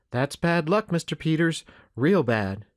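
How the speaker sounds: a hint of an earnest child; sympathetic boy. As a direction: commiserate as a young boy would. Voicing boy Jed's sympathy.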